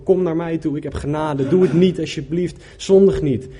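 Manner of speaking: high, loud desperate calling out; God shouting for people to come back, pleading and loud. Acted. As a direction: cry out to them, begging them to turn back. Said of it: "Hij staat te roepen, te schreeuwen".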